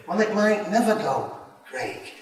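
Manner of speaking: firm self-rebuke. Acted.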